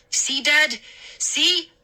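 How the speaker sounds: high, triumphant and eager; happy cry. Acted. Boy vindicated before father, crying happily. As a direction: crow that you were right. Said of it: "I cried happily".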